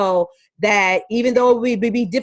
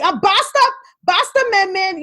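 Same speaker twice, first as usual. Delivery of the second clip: put-on little girl voice; 9 semitones higher than usual. Daughter scolding brother.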